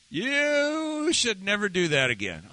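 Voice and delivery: lightly voiced stern wife laying down the law; wife's scolding. Pastor imitating his wife correcting him, mild mock scolding.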